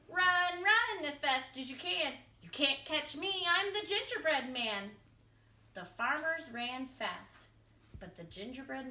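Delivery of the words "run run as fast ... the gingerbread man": high, loud taunting call; sing-song tease, calling out. A narrator's reading. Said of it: "called out".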